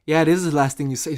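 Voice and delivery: fast retort with stress on is; Rock comeback. Retold or imitated. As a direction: snap the line back quickly. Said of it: "And The Rock's like".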